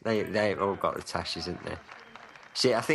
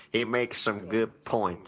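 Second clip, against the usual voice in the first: gun-cleaning viewer; slower than usual. Acted. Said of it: "Sitting there cleaning the guns going".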